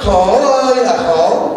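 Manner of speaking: slow mock-wailing "khổ ơi là khổ", drawn out on "ơi"; sarcastic lament. Monk teasing the wife about her easy life, slow mock lament. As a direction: drag out "Khổ ơi là khổ" like a fake moan. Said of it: "sarcastic refrain repeated".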